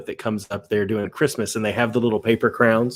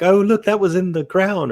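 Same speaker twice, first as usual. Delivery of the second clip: higher-pitched gushing sightseer, put on; mock tourist excitement; 6 semitones higher than usual. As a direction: pretend to marvel at a landmark. Imagined tourist remark, mock excitement.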